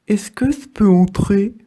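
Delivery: small whispered request; whispered worm. Acted. The worm whispers to the apples asking to come in. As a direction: ask shyly to come in, in a whisper. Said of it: "un ver se présente".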